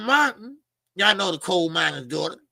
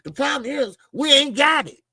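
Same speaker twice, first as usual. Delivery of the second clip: retold exasperated reply; 7 semitones higher, 4 dB louder than usual. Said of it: "They said".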